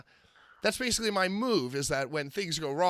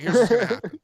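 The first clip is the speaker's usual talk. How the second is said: louder, higher urgent delivery; retold announcement; 4 semitones higher, 6 dB louder, faster than usual. Wrestler telling Sean the plan during match, raised voice. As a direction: raise it over the noise.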